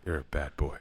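low, soft, smooth DJ voice; late night radio DJ. Pretend. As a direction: purr it like a late night host. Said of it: "in my late night D J voice".

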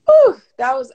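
tearful exhale. Real, not acted. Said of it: "I had a moment right there".

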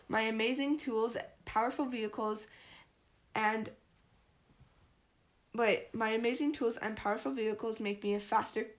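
talking with braces and elastics, mouth barely open. Real, not acted. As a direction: say it through braces and rubber bands. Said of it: "I'm reading terribly because I have braces and I have elastics in".

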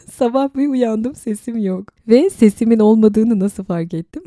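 lost voice, laughing hoarsely. Real, not acted. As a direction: croak through a voice that's gone. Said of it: "Sesim gitti arkadaşlar".

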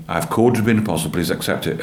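the Lord patiently repeating his call, gently. Retold or imitated. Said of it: "He simply said gently".

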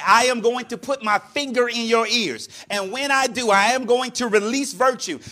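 deliberate, emphatic, spaced-out words; talking to a lip-reader. Retold or imitated. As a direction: spell it out firmly for a lip-reader. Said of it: "she had to read my lips".

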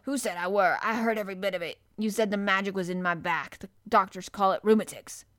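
lightly voiced gruff old gardener, admiring; old man praising the boy, a touch of dialect; old Yorkshire gardener. Ben indignant.

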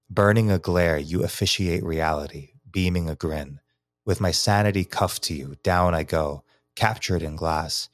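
measured, rhythmic poem recital; poem reading. Acted. Poet reading his rooftop poem to podcast hosts, rhythmic recital. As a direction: read it letting the meter carry.

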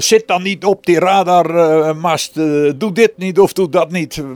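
loud, high, exasperated yell; shouting at birds. Retold or imitated. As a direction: shout at the bird on the mast to get off. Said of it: "tegen vogels liggen schreeuwen". (luid tegen vogels schreeuwen)

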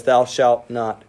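slow, low, weighty scripture; slow solemn quote. Shown as a demonstration. Preacher quoting the commandment to the church, slow and solemn. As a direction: draw out each word like a commandment. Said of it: "That's why it says".

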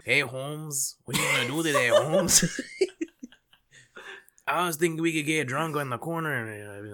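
put-on high, loud stereotyped Latino accent; exaggerated Latino accent. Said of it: "do that accent".

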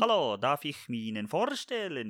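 a clumsy mock Swedish accent; hammed-up fake Swedish accent; Swedish accent attempt. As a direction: try a Swedish accent and miss it. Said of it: "das ist kein dänischer Akzent".

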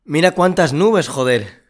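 looking up at a cloudy sky, amazed; surprised. Pretend. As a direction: marvel at the sky.

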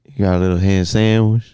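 low, lightly put-on weird voice; weird character voice. Podcaster listing picnic food, weird character voice. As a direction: slip into an odd low character. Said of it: "weird black guy voice crossed with".

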